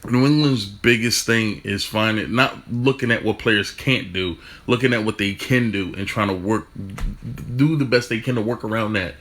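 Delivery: stumbling over the words; tripping over words, restarting; stuttering. Real, not acted. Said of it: "Sorry I'm stuttering right now".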